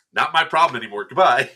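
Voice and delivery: amused mock dismissal; laughing brush-off. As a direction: toss it off while laughing. Hands off angry player, laughing.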